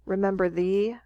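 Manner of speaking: "remember thee" rising at the end like a question. Retold or imitated. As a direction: let "thee" lift, as if questioning. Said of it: "So he's questioning".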